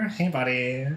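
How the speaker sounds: lightly put-on "hey buddy" greeting; a hint of a code-switched voice. Shown as a demonstration. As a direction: repeat the bit in a slight character voice. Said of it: "I did it earlier".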